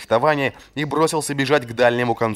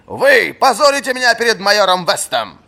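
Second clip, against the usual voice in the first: high, loud indignant rebuke; angry scolding; 12 semitones higher, 7 dB louder than usual. A narrator's reading. Old master scolding the captain in front of the major. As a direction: shame him out loud.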